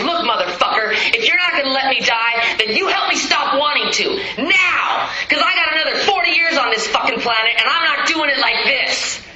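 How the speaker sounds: demanding yell at God, rising to a cry of now; a desperate ultimatum shouted heavenward; angry prayer. Retold or imitated. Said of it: "My surrender prayer ... was".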